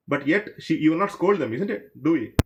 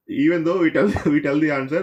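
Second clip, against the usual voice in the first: real laugh running into the words; amused laugh at his own joke; 6 dB louder than usual. Real, not acted. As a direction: chuckle through the line. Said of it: "the reason I'm laughing is".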